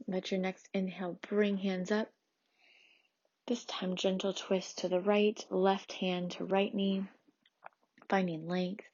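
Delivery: measured, soothing prenatal yoga teacher; gentle yoga instruction. Acted. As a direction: lead a calm restorative class, leaving long pauses. Leads a restorative yoga practice.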